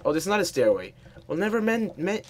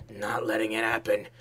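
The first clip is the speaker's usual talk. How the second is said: whisper; 3 semitones lower than usual. Real, not acted. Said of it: "whispered determination".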